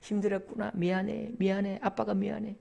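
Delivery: hushed, consoling murmur; comforting father. Acted. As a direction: soothe a crying child, voice dropped. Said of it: "안아주면 되죠".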